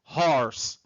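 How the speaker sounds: "horse" with an open O sound; careful corrected "horse", open O; correct pronunciation. Shown as a demonstration. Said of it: "E o som de cavalo é horse".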